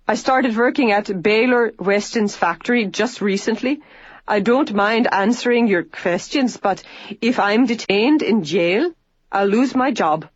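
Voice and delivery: lightly voiced man pleading earnestly, slowing mid-line; worried young man. A narrator's reading. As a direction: plead to keep your job. Joe pleads with the officer.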